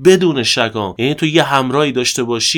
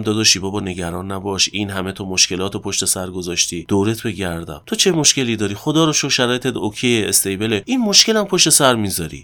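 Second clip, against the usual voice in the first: soft, softer pep talk to himself; tender self-talk; 5 semitones lower, 5 dB quieter than usual. Shown as a demonstration. Talking gently to himself while sick, tender and soft. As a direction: comfort yourself like a kind older brother.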